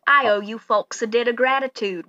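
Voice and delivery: very slow country farmer voice; slow folksy farmer. Acted. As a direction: drawl it out like a grateful old farmer. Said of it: "and he goes".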